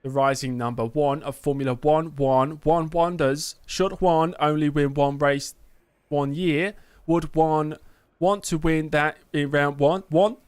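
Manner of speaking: slow, lofty mock-aristocrat drawling each one; mock posh voice. Streamer mocks a press question in slow posh voice. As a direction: ham up a pompous royal asking about one.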